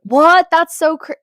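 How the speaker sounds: high, loud gasp of disbelief; shrill fake wow cut short; mock amazement. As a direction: jump way up like it's the wildest news. Imitating people hearing about Japan.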